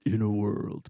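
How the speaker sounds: low raspy trailer voice; gravelly morning trailer read. Shown as a demonstration. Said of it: "that raspy, like, morning voice".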